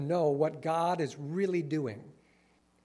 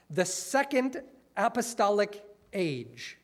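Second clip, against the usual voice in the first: slow, proud announcement; excited; 3 semitones higher, 3 dB louder than usual. Retold or imitated. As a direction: read it like thrilling news. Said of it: "It says this in, in excitement".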